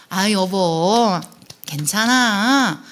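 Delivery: very slow, drawn-out reassurance; acted soothing. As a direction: cradle each word as you comfort a spouse. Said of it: "이렇게 안아주는 안전기지만 되어도". (안아주듯 길게 달래며)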